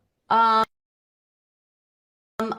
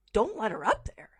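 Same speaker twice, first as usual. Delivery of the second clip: softer, unvoiced echo, rising; whispered echo; 4 semitones higher, 5 dB quieter than usual. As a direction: repeat it to yourself in disbelief. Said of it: "And I said it out, out loud to myself".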